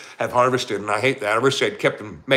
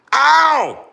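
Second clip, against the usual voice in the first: mock ow; 14 semitones higher, 7 dB louder than usual. Imagining cat pain.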